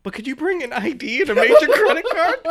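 high, eager date voice; sweet woman's voice. Retold or imitated. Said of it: "And she's like".

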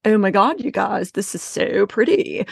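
lightly voiced Valley Girl gush; a hint of a Valley Girl. Entertaining husband with a light Valley Girl voice. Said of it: "Valley Girl".

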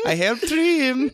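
bad German Santa. Santa impersonator by his tree, slow silly voice. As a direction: draw out the confession in mock German.

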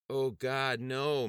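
wife crying out as her husband dies; anguished cry. A narrator's reading. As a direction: cry out in despair. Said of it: "Missus Samuels cried out".

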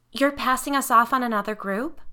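mother cutting him off, indignant; indignant demand. A narrator's reading. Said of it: "I demanded".

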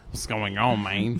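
lightly voiced fake Jamaican accent, sounding Mexican; bad Jamaican accent. Guest reprises the brother's attempt, mild bad Jamaican accent. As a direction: toss off a poor Jamaican accent at normal volume.

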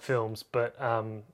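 normal talking voice

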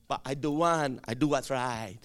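low, composed acted voice; controlled answer in a deep register; disciplined self-restraint. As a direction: come down low and resolute.

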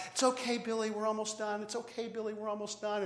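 put-on soft, soothing dad to a screaming boy; quietly calming a child in a cart; calm reassurance.

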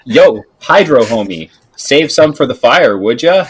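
loud, lifted heckle across the bar; jaunty call-out. Acted. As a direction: call out cockily to a drinking buddy. Player calls to drinker in character.

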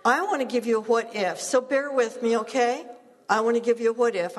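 rally them for an idea; energetic setup. Real, not acted. Preacher eagerly introducing her what-if to the congregation.

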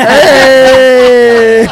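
loud startled high yell; startled shout. Real, not acted. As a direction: jump and shout hey. Reacting to scary video.

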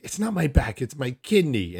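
mock mom's indignant correction; insistent retold retort.

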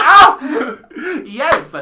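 high, loud, drawn-out oh yes; mock posh reply. Mocking reply in retold scene.

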